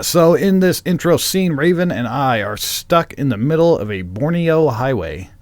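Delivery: scene-setting narration; script read-aloud. Acted. Host sets up the radio play scene, read-aloud narration. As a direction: read out the intro as a storyteller.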